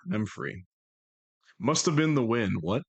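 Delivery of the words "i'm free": soft relieved echo. Real, not acted. Streamer repeating the relief quietly. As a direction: breathe it out relieved. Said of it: "repeated softer".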